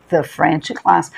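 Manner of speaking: slow the French class, the as a short thuh; thuh before consonant. Shown as a demonstration. Teacher drilling the before a consonant. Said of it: "Aula de francês".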